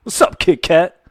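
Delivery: retelling a bit with a pointed, provocative tone; loaded racist-sounding tone. Retold or imitated. Comic's bit making a harmless word sound offensive, pointed mock tone. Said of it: "say it with the right tone".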